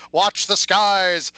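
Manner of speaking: slow, booming movie trailer voice; ominous sci-fi announcer warning; dramatic voiceover. Pretend. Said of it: "Wrong voiceover".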